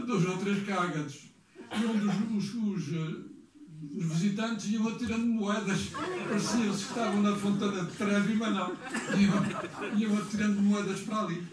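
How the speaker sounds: real laughter breaking into the telling; amused, laughing. Real, not acted. Amused telling of turtle pond anecdote.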